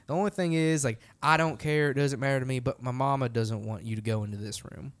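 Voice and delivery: lightly imitated Southern politeness; sweet Southern accent. Host warning guests off mama's room, lightly sweet Southern accent. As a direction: gently pass on a house rule with a hint of Southern sweetness. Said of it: "in his real sweet Southern accent".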